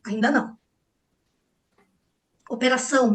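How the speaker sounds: ordinary talk, nothing marked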